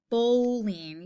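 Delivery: "Bowling" with a drawn-out long O. Shown as a demonstration. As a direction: stretch the O in "Bowling" long and round. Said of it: "You hear that O sound".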